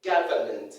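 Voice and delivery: government as GA-vuh-ment, low-pitched; correct pronunciation. Shown as a demonstration. Teacher models how it is pronounced, correct pronunciation. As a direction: open "ga" in "government", then sound "vuh-ment". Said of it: "It's pronounced".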